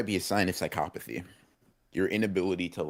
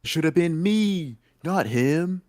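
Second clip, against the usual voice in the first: mock jealous whine; 11 semitones higher, 6 dB louder, slower than usual. Mock jealous line, high voice.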